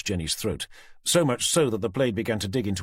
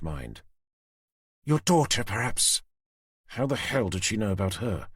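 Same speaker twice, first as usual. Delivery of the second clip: Susan's menacing voice; 2 semitones higher than usual. A narrator's reading. Susan threatening Tanner with the knife at Jenny's throat. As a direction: savour the threat.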